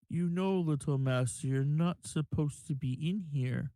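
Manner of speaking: flat, level drow servant voice; deadpan monotone, no emotion. Acted. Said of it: "in his monotone voice".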